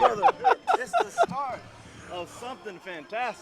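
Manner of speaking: wrestler promo voice. Acted. Wrestler bursts into the booth.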